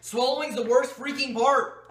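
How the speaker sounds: slow, strained and loud. Real, not acted. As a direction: squeeze it out in disgust. Forcing down lemon juice.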